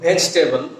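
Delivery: vegetable as vej-tebol, middle vowel dropped; contracted pronunciation. Shown as a demonstration. Teacher introducing the example word, vegetable as vej-tebol. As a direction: skip the second e of vegetable. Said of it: "make a sentence from".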